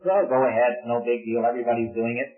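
low, offhand devil's coaxing; minimizing tempter. Acted. Devil to believer before the sin, casually minimizing. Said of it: "He minimizes the sin before we commit it".

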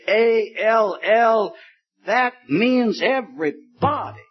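lightly hammed-up pulpit pounding on A L L; mock podium preacher. Preacher imitating preachers at the podium, mock bombast. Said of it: "we preachers sometimes hit the podium and we say".

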